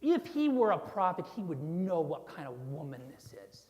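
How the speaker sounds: acted Pharisee scorn, hitting "he" hard; disgust at Jesus. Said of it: "directing the disgust at Jesus".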